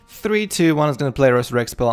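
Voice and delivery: fast, loud countdown; excited countdown. Real, not acted. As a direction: count it down hyped. Countdown prediction.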